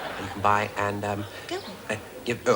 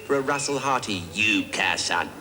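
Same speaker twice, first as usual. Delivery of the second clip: mock Cockney; 5 semitones higher than usual. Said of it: "translate into Cockney".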